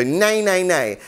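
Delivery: nasal nay. Shown as a demonstration. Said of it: "as intense and extreme with them as possible".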